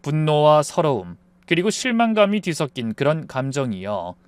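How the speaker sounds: ordinary delivery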